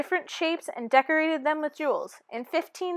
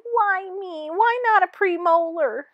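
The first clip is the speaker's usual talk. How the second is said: self-pity; 6 semitones higher than usual. Acted. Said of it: "Self-pity".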